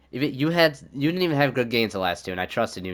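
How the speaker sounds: furious rant. Real, not acted. Raging at the goalie.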